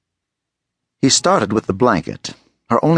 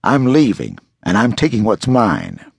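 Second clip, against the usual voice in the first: growling. Acted.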